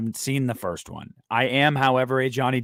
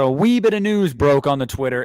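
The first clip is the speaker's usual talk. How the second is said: badly faked British accent, louder; 2 semitones higher, 6 dB louder than usual. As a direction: have a clumsy go at a British accent. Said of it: "I know, I know it was bad".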